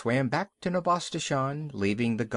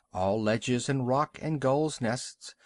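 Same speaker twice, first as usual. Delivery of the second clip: plain reading voice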